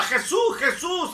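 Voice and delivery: high pleading call of Jesus' name; crying out. Retold or imitated. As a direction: call out to him, begging.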